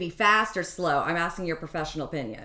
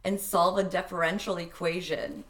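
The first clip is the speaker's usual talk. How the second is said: slow, stiff spoken word reading; robotic poem; slower than usual. Shown as a demonstration. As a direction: read it like a deadpan robot poet. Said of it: "I read that like a, a robotic poem".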